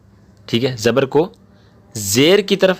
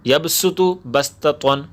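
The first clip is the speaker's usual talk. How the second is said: each syllable drawn out slowly; slow Quranic word demo; slow recitation; 2 semitones higher, much slower than usual. Shown as a demonstration. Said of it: "اور پہلے دو".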